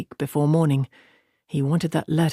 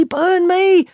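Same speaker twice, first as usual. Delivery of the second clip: much higher, louder shout, peak of alarm; louder alarmed cry; 14 semitones higher, 5 dB louder than usual. Acted. Tom shouting from the loft as Matt faces knives, at full alarm. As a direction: top the first one, full alarm.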